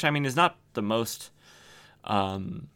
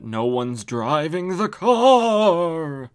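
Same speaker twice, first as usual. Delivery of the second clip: louder, higher, drawn-out comic horror; mock-dramatic reveal; 6 semitones higher, 8 dB louder, much slower than usual. Revealing the driverless car to listeners, mock-dramatic reveal. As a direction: stretch it out slowly into a big raised wail.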